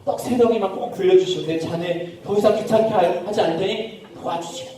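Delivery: softened, acted begging; earnest pleading. Man begging his friend for bread, earnest pleading. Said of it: "너무 간절하게".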